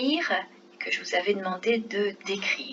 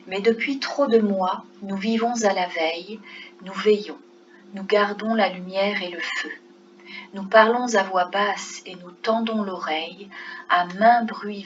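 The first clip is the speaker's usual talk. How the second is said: measured poem recitation, line by line; poem reading. Acted. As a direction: read the poem aloud with pauses between phrases. Lit le poème à voix haute. (lecture posée d'un poème)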